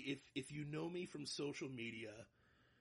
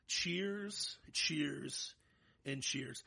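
toast; 4 dB louder, much slower than usual. Real, not acted. Repeated toast, first one high.

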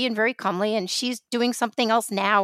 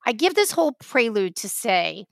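ordinary talk

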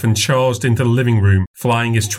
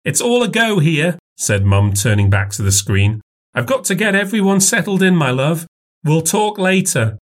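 put-on older woman voice; 7 semitones higher than usual. A narrator's reading. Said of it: "mother ends call".

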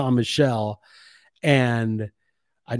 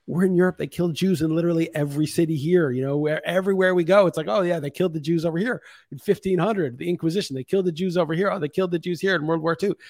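exasperated rant; 6 semitones higher than usual. Retold or imitated. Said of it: "I'm like".

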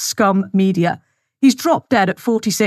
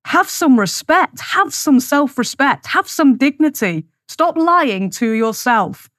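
slow scolding lecture; 4 semitones higher, slower than usual. Real, not acted. Lecturing the listeners.

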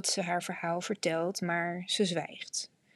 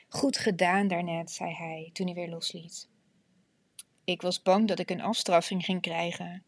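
steady, measured reading voice; audiobook narration. A narrator's reading. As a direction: read it like an audiobook. Reads book excerpt aloud.

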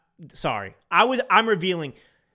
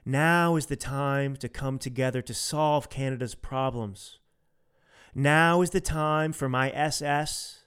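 lightly voiced smooth prime minister, hiding menace behind calm; a hint of a soothing politician's press conference voice; mock passionless politician; 3 dB quieter than usual. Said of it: "and that's how they talk".

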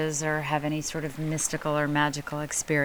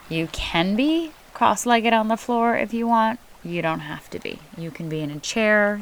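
guided meditation. Acted. Leads seated meditation setup.

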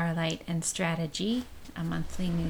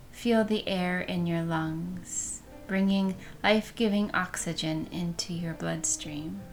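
calm guiding voice, unhurried; guided meditation. Acted.

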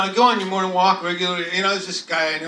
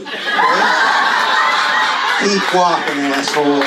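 louder, mock gruff dismissal; gruff brush-off; 3 semitones lower, 7 dB louder, slower than usual. Caught neighbor tells Mike to keep walking, mock gruff. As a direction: shoo him off with a growl. Dave snaps back at Mike.

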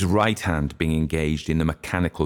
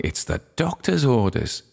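higher, playful character line; said smiling; 7 semitones higher than usual. A narrator's reading. Mister Brown excusing his drink to the ladies, smiling. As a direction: let a smile into the voice. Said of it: "he said, smiling".

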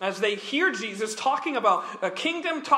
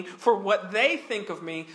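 ordinary talk

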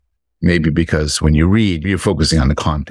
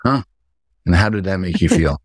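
therapist voice; 2 semitones higher than usual. Pretend. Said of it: "I'm trying my therapist voice".

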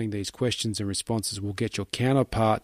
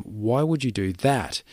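slow question leaning on "that"; a slow, puzzled "Why would you do that?" with weight on "that"; stress on that; slower than usual. Shown as a demonstration. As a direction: hit the word "that" at the end of "Why would you do that?". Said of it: "and emphasize the "that".

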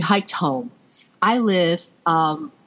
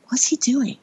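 whispered aside to herself; hushed, wondering whisper; 6 semitones higher than usual. Retold or imitated. Mother watching her son run to a hiker, whispering. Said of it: "I kind of was like".

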